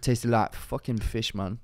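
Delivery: tentative attempt at a roadman accent; lightly put-on London roadman accent. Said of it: "the accent gone".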